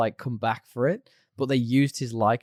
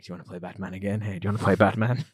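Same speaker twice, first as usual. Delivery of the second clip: mock pestering in the ear; 4 semitones lower, faster than usual. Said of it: "in his ear going".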